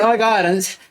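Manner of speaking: high, sugary mock greeting; fake sweet. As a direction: lay the fake friendliness on thick. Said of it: "what a fucking fake cunt".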